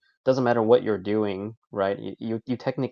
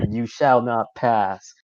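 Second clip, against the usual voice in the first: slow, louder wizard proclamation; Gandalf; 5 dB louder, slower than usual. Retold or imitated. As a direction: boom it out like Gandalf on the bridge. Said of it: "Like, you're Gandalf there standing on that bridge and you say".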